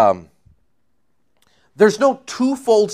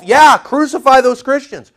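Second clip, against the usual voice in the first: higher, louder jeering voice; mock persecutor cheering; mock God hater; 8 semitones higher, 5 dB louder than usual. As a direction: sneer it like a bloodthirsty zealot. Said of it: "They're all".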